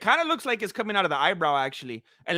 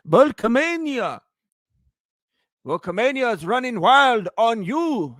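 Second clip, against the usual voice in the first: put-on Kiwi accent; 4 dB louder than usual. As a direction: attempt a Kiwi accent like a wrestling promo. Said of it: "how to do a Kiwi accent".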